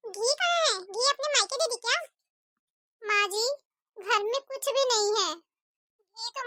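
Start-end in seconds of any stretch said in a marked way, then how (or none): 0.1-2.0 scolding mother-in-law. Acted. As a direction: nag the daughter-in-law to hurry. Mother-in-law mocks the meal. (बहू को डांटती कंजूस सास)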